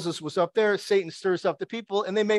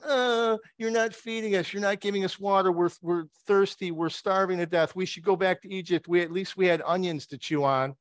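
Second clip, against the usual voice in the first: mock whiny complaint, starting high and easing down; grumbling; 3 semitones higher than usual. Israelites complaining to Moses in the wilderness, mock grumbling. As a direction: grumble like a whining crowd. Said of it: "they start grumbling. They start going".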